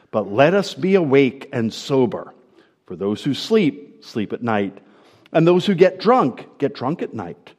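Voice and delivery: measured, solemn Bible reading; a preacher reading the epistle to his congregation, solemn and measured; scripture reading. Acted. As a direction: read the passage aloud to the church. Reads scripture aloud to congregation.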